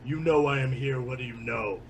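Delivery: Batman voice. Acted. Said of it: "drop my voice with my voice changer to, like, Batman levels".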